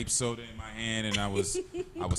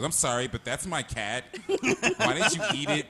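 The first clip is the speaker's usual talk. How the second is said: mock prissy neighbor; 2 semitones higher than usual. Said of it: "she looks at the dog and goes".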